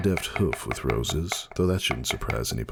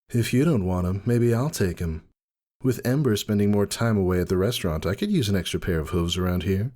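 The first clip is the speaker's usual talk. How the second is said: lightly voiced wife; 4 semitones higher than usual.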